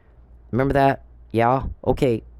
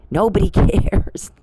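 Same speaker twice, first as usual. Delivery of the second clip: mocking laugh; 5 semitones higher, 3 dB louder, slower than usual. Real, not acted. Taunting the listener, laughing.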